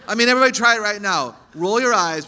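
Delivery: laughing through the words, fast and loud; a real laugh as she urges everyone to try. Real, not acted. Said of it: "laughing invitation".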